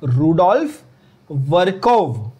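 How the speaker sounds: वर्कोव drawn out slowly, hard k; teacher repeating वर्कोव for the class to copy; pronunciation demo. Shown as a demonstration. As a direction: say Rudolf, then a slow वर्कोव with a clear k. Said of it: "pronounce properly करो बच्चों".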